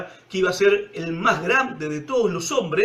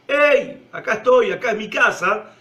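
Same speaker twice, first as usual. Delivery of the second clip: loud call across the street; calling across the corner; 4 dB louder than usual. Retold or imitated. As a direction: shout to someone who can't hear. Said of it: "vos levantás la voz y le gritás". (llamada fuerte de esquina a esquina)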